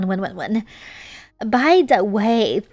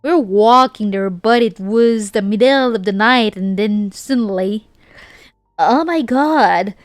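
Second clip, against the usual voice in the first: Southern accent. Shown as a demonstration. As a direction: keep the hammed-up Southern accent going through the story. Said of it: "read it with a American Southern accent".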